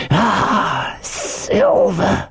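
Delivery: high, breath-filled exclamation; dread recognition. A narrator's reading. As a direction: let the name escape half-whispered. Fearful recognition of Silver's name.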